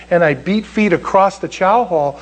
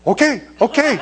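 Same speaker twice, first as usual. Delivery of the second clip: high, hurried-to-agree mock meekness; meek retold compliance; 7 semitones higher than usual. Recruit gives in to drill sergeant, high meek agreement. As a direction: give in at once, pitched up. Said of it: "And I was like".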